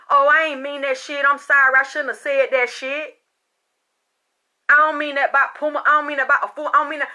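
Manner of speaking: loud, high, hammed-up backpedalling; mock retraction. Mimicking a frantic retraction she rejects.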